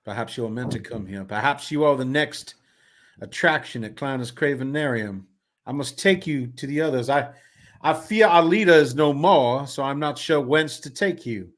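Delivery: slightly grand, measured delivery; lightly voiced carnival man. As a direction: muse aloud with mild ceremony. Voices a game character.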